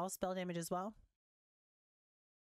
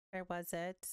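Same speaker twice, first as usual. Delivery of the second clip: barely voiced, just to yourself; whispered to self; 3 semitones lower, slower than usual. Real, not acted. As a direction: whisper it under your breath as you look. Searching the screen for item.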